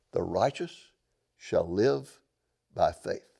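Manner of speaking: low, slow and measured, a calm pronouncement; voice of God. Acted. The Lord answering the prophet, low and unhurried. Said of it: "And the Lord simply says".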